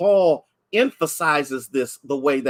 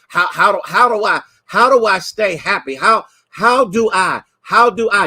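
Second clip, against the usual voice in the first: higher, louder, stammering plea of a troubled saint; pleading believer; 4 semitones higher, 4 dB louder than usual. Acted. Preacher voicing a struggling believer, higher and louder pleading. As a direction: cry out as someone worn down.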